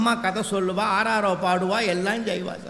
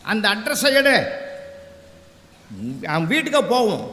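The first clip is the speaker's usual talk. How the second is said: mock-angry curt orders; angry officer. Officer ordering his wife to fetch the boy's address, angry. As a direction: order her up, imitating an angered husband. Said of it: "அதிகாரிக்கு கோபம் வந்துடுது".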